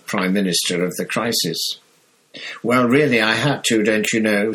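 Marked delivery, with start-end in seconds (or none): 2.6-4.5 irritable Fudge. Acted. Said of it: "said an irritable Fudge".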